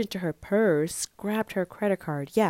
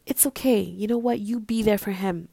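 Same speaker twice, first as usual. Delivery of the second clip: higher, louder retold encouragement; reassuring; 4 semitones higher, 4 dB louder than usual. Telling a saddened friend to support him, reassuring. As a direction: buck up a friend, emphatically.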